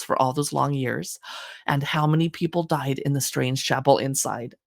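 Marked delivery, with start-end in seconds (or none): 2.1-4.5 spooky narration. Acted. Dramatic horror blurb ending.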